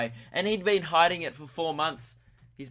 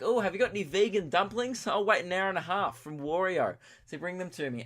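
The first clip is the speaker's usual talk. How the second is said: Emily imitation; 4 semitones higher than usual. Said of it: "Emily will be like".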